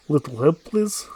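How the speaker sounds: a light attempt at a Russian accent. Player voicing the Huntress asking for the ball, tentative Russian accent. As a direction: try a Russian accent, lifting on the last word. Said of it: "Russian accent".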